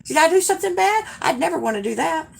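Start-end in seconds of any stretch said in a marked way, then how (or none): 0.1-1.1 high, fast anxious worry; worried. Retold or imitated. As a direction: fret that you did something wrong. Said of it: "I was like".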